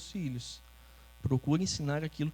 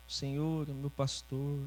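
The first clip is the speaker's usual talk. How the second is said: inexpressive reading. Shown as a demonstration. Preacher showing the family how not to read Scripture, inexpressive. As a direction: demo of lifeless Bible reading. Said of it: "Não assim, né?".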